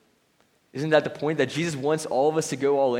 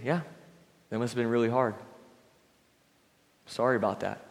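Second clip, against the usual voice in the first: calm listening; 4 dB quieter than usual. Retold or imitated. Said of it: "Just calmly listening".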